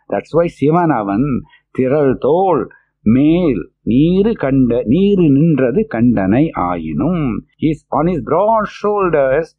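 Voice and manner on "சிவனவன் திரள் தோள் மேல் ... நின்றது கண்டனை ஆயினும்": verse recital. Acted.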